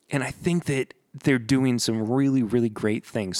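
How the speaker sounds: usual speaking voice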